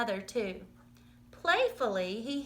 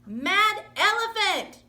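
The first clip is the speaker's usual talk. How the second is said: high, loud, slow yell; crowd shout; 8 semitones higher, 6 dB louder, slower than usual. Acted. Circus crowd yelling at raging mother, loud slow shout. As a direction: bellow it like an angry mob. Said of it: "shouted the crowd".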